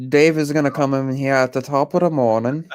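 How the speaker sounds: lightly put-on English accent, sliding into Irish; playful English-Irish accent; English accent gone Irish. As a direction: attempt English and land closer to Irish. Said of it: "every time I try to do an English accent, it sounds more Irish".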